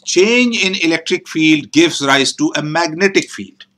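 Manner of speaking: slow and careful, each word laid out; patient teacher stating the rule; slow, deliberate correction. Shown as a demonstration. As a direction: spell the law out slowly for the student. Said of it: "not electric field, Jay, it's magnetic field".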